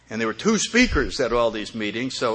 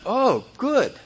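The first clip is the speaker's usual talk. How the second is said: high, light relieved reply; a touch of high relief; 9 semitones higher than usual. Retold or imitated. Sudden relief in story.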